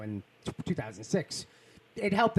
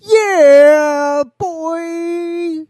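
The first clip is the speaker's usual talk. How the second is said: high yell; 12 semitones higher, 11 dB louder than usual. Acted. Yelling the catchphrase.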